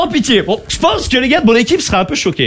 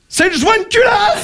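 high, drawn-out diagnosis; panda mechanic; 10 semitones higher, slower than usual. Acted. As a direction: cry it out slowly as a cocksure panda. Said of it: "tu vois le panda faire". (panda mécano, voix aiguë et traînante)

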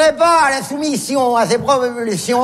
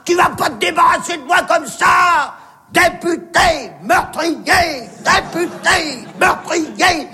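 mock yelling; 4 semitones higher than usual. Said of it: "J'ai commencé à gueuler".

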